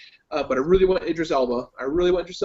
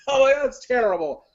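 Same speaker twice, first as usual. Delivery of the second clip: high, loud fanboy wail; mock-distraught, whining fanboy complaint; typical fanboy; 7 semitones higher, 5 dB louder than usual. Fanboy moaning about the movie he went to see, mock-distraught. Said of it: "I'm like a typical fanboy".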